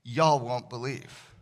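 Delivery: slow Southern "y'all won't believe"; a hint of a Southern drawl. Shown as a demonstration. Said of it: "as the Southerners would put it".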